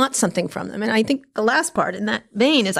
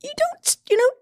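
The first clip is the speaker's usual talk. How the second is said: much higher, sarcastic brush-off; exasperated scolding; 8 semitones higher than usual. Retold or imitated. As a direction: talk down to him, mock-patient. Scolding billionaire doing yoga.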